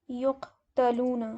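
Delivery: یقتلون slowly, first vowel a clear u; passive form, slow and clear. Shown as a demonstration. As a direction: stretch out یقتلون with u at the start and a on تا. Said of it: "صرف ہم پہلے کی sound change کریں گے او". (یقتلون آہستہ، پہلی آواز پیش کے ساتھ)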